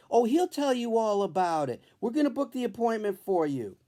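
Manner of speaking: a hint of a chirpy early-morning doctor; the doctor's own voice.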